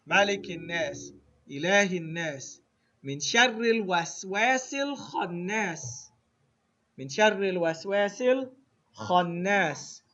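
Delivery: measured recital with drawn-out vowels; Quran recitation. Shown as a demonstration. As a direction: recite the verses deliberately for learners. Recites the surah for students.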